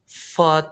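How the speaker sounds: FART with open vowel, no r. Shown as a demonstration. Teacher translating kentut, British FART without r. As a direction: drop the r in FART. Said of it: "bukan lagi fart".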